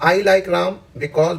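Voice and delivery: slow, deliberate reading of the sentence; slow dictation. Shown as a demonstration. Teacher reading a test sentence slowly to students. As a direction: read it slowly so students can follow. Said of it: "because के बाद जोर लगाइए".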